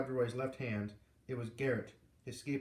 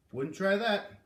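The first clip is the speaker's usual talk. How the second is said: louder, higher warning through clenched teeth; warning through clenched jaws; 7 semitones higher, 6 dB louder, slower than usual. A narrator's reading. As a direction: growl a threat through the teeth. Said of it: "warned through clenched jaws".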